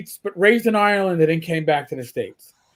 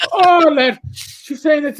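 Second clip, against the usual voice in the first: higher Irish brogue, drawn out; Irish captain; 6 semitones higher, 4 dB louder, slower than usual. Retold or imitated. Irish captain explains what his mother said, higher-pitched brogue. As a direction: translate in an easy Irish lilt. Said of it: "He's like".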